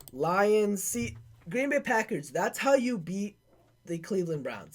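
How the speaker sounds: high and loud, rising on how; that's how you beat them, triumphant; excited gloat. Real, not acted. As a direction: crow it over the rival fans. Gloating over Lions' win.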